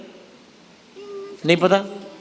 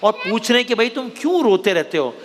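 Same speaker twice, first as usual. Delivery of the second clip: put-on storytelling to kids. Host telling children a crocodile story, storyteller's read. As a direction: tell it like a bedtime tale.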